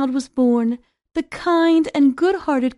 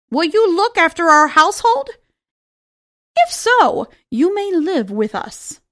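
friendly dwarf voice; 3 semitones higher, 4 dB louder than usual. Acted. Dwarfs ask Snow White.

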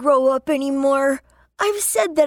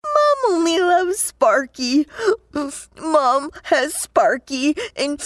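tearful; slower than usual. Acted. Child sobbing, feels unloved.

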